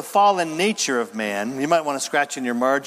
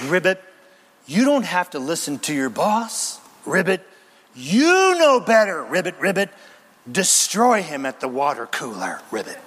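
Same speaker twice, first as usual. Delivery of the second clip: tempting demon frog. Pretend.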